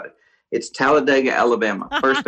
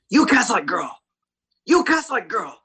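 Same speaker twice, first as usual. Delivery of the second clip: high taunting voice, mimicking the bully; sing-song schoolyard taunt, pitched up; mocking bully; 10 semitones higher than usual. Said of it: "He goes".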